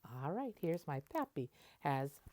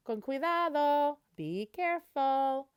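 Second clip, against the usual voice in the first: raised, higher voice of a careful dad; caring warning; 8 semitones higher, 6 dB louder than usual. Acted. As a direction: call out gently but firmly, be careful. Papi warns daughter on motorcycle.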